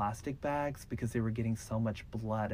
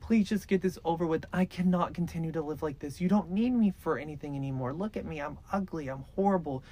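retold plea of a broken victim, much higher; begging to die; 6 semitones higher than usual. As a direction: beg for death in a strained high voice. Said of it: "She was like".

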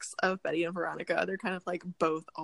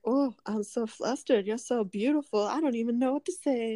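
put-on flustered boy; 4 semitones higher than usual. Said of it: "Harvey pops over flustered".

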